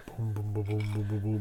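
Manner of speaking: soft, rolling drum booms; distant drum imitation. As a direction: imitate drums far off in the jungle. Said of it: "they hear these drums".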